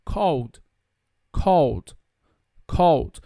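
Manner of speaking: CALLED as one syllable ending in D. Shown as a demonstration. Teacher modelling CALLED, one syllable with a D sound. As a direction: close CALLED straight onto a D. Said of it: "você vai pronunciar esse E D com som".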